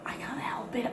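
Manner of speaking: a soft whispered confession. Real, not acted. Hushed in the bathroom at night, whispered. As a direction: breathe it out unvoiced.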